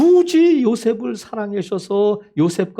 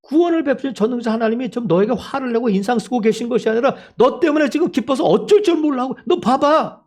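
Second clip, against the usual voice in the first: impassioned preaching; 4 semitones higher than usual. Acted. Preaches at full force.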